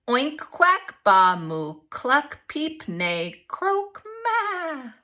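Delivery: animal noises. Acted.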